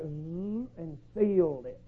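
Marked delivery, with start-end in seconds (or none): 0.0-0.7 low, soft buzzing zzz; quiet imitated sealing sound. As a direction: buzz like a finger sealing the door. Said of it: "the Lord just took his finger and went".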